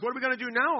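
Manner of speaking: high, loud mock complaint; imitated whining. Mission travelers complain to their leader, mock whining. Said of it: "people are whining at me".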